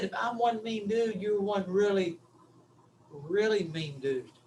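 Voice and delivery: softening, slowing retold remark; gently said, with a careful pause; gentle. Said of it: "and I said it gently".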